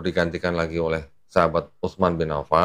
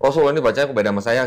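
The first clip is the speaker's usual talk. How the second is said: hurried complaint; 5 semitones higher, much faster than usual. Retold or imitated. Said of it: "orang itu langsung ditenteng".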